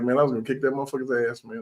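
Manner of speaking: mock tough talk. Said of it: "that's just how I felt about it".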